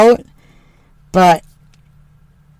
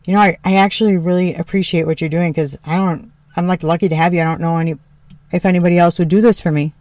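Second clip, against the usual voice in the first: lightly lower, quick grateful husband; a hint of husband; 4 semitones lower, faster than usual. Wife quoting husband's appreciation, lightly lower and quick. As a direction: mumble his thanks a bit lower and faster. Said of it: "said something along the lines of".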